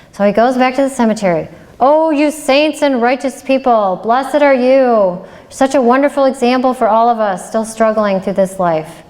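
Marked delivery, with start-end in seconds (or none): 1.8-9.0 effusive mock praise. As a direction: lay the praise on thick like a sermon. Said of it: "go back to the cemetery and praise them".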